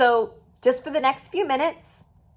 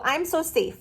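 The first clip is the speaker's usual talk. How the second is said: calm grounding exercise; 7 semitones higher than usual. Shown as a demonstration. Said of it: "this one is my favorite".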